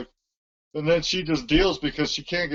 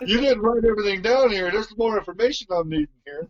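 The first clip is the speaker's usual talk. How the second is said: frustrated rant; 5 semitones higher than usual. Retold or imitated. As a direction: vent it, fed up and lost in the aisle. Acting out a confused tampon shopper.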